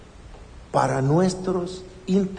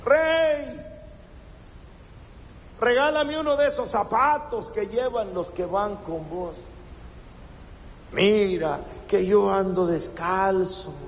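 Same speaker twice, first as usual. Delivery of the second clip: begging beggar. Retold or imitated. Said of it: "Y empieza a gritarle".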